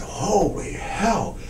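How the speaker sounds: breathless, slow whispered amazement; stunned whisper. Retold or imitated. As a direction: whisper it like you can't believe your eyes. Buyer stunned seeing the painting.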